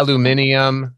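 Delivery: Aluminium with the British five syllables, al-you-MIN-ee-um. Shown as a demonstration. Host trying the British Aluminium on his guest. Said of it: "I just wanna be able to say it".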